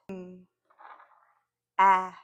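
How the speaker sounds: "M" hummed, then a separate short "a"; isolated phonemes. Shown as a demonstration. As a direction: sound out "M" and "a" one at a time. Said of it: "blend every phoneme".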